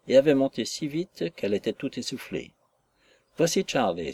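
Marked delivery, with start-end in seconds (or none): 3.4-4.1 eager little cry of a name; exclaiming child. Acted. Little brother announces his sister's arrival, mild eager cry. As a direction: announce her eagerly, a touch raised. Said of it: "s'écria le petit garçon".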